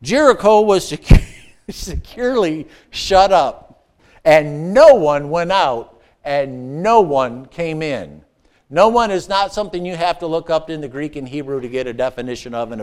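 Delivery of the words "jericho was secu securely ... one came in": slow, every NO stressed; slow emphatic reread. Shown as a demonstration. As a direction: lean hard on "no one" each time. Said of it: "Verse one".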